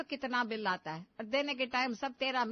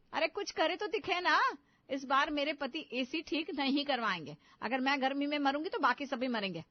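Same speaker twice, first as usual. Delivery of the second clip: angry retort; 4 dB louder than usual. Acted. Sisters-in-law quarrel over AC.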